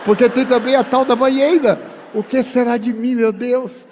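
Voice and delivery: laughing as he feigns panic over the bathtub; laughing mock alarm. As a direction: joke about the tub while laughing. Joking mock alarm about bathtub.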